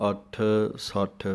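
ਅੱਠ ਸੱਠ run together with a firm ਠ. Shown as a demonstration. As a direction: keep ਅੱਠ ਸੱਠ joined, no gap, ਠ sounded fully. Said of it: "ਇਹ ਪਾਠ ਇਕੱਠਾ ਹੀ ਬੋਲਣਾ ਹੈ". (ਅੱਠ ਸੱਠ ਇਕੱਠਾ ਬੋਲਣਾ)

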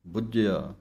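ਬੁੱਝਿਆ said tightly with the doubled consonant; firm; tight pronunciation. Shown as a demonstration. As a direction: press the ਝ in ਬੁੱਝਿਆ. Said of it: "ਕੱਸ ਕੇ ਬੋਲਣਾ ਹੈ".

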